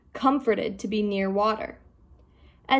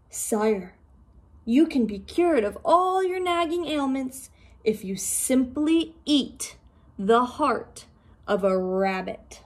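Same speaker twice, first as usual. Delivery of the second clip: lightly voiced sly fish; 3 semitones higher than usual. Fish advising the Dragon King, a lightly voiced courtier.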